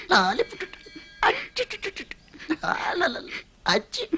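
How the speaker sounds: put-on high cooing baby talk, soft; high-pitched soft coo at a baby.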